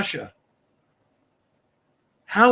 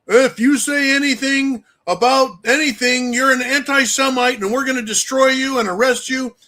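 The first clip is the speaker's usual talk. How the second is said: mock Israel; 4 semitones higher than usual.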